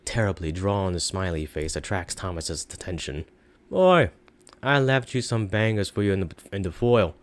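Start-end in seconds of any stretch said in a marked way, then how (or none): 3.7-7.2 high, loud called greeting; fond note voice. Acted. Shopkeeper's note left for Thomas, high and fond. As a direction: read the note in his voice.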